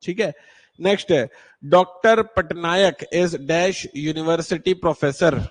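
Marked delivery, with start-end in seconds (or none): 1.7-5.4 slow, word by word; slow dictation. Shown as a demonstration. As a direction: read slowly for the class. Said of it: "teacher reads exercise slowly". (धीमे पढ़ना)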